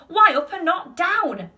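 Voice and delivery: high, loud, drawn-out question; shouting. A narrator's reading. Passengers challenge Wonka about going up, shouting. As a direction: shout it slowly in disbelief. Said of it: "they all shouted at once".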